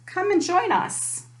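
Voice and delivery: high, slow squeaky mouse voice; squeaky field mice. A narrator's reading. Field mice invite Fluffy Bunny to dinner, high squeak. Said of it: "they squeaked".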